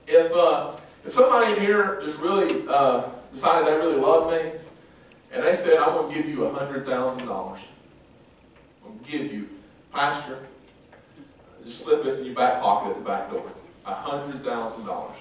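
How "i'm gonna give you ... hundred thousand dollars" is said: low, hushed aside as if slipping cash over; hushed secret offer. Acted. Pastor voices a church member slipping him money, hushed. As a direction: murmur it like a secret handoff.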